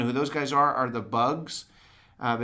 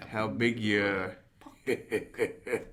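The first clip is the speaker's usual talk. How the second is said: laughing quote; 4 semitones lower than usual. Retold or imitated.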